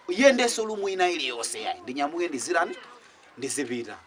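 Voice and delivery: ordinary talk, nothing marked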